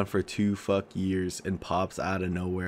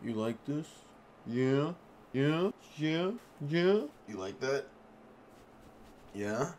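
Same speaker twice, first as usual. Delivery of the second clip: teasing whisper; 5 semitones higher, 9 dB quieter than usual. Acted. Teasing the viewer.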